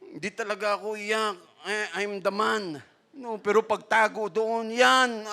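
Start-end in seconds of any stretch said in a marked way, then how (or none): 0.1-2.8 imitating a man who says he never cries; macho man. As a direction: hold back the tears and play it tough, lightly. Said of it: "tayo ng mga lalaki".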